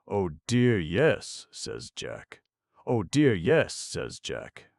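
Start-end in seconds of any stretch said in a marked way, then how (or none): 0.1-1.5 mildly eager Jack's first reply, not loud; a quick, lightly lifted oh dear yes. Acted. Jack answers the two ladies. 2.9-3.7 higher and louder insistent repeat; emphatic yes. Acted. Jack repeats his answer, stronger.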